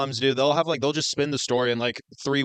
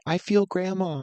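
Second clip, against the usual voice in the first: lightly voiced little kid, higher pitch; youngest child; 6 semitones higher, slower than usual. Youngest child at grandma's deathbed, childlike. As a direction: raise the pitch like a small child. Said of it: "the youngest child's like".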